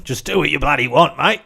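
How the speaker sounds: mock Spain saying. Joking about what they say in Spain, broad accent. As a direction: deliver a mock foreign saying in a broad English-speaking accent. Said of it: "They just say it with that accent".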